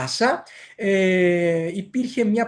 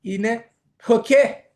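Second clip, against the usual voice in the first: "ποκέ" drawn out slow, higher and louder; revealing pokhe; 6 semitones higher, 6 dB louder, slower than usual. Shown as a demonstration. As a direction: unveil "ποκέ" like a big reveal. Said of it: "προσέξτε τώρα, κρατηθείτε".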